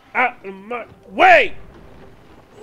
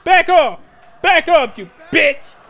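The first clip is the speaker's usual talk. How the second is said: angry yell; 3 semitones higher, 6 dB louder than usual. Real, not acted. Attacked in game.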